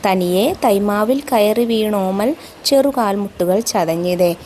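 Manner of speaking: slow, measured verse reading with drawn-out vowels; poem recitation. Acted. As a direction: recite the verse slowly, lingering on phrase ends. Recites verse before explaining.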